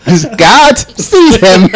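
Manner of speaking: drawn out through laughter; slow laughing pronouncement. Retold or imitated. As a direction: deliver it slowly, cracking up. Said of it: "nothing to do with anything".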